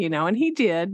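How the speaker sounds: normal talking voice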